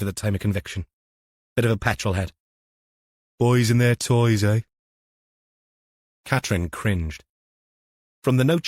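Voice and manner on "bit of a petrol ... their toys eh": put-on a sneering older copper; gruff detective voice. KFC character voice.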